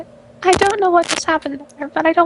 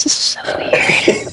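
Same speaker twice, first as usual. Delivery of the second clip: whispered; slower than usual. Real, not acted. Uneasy aside, whispered.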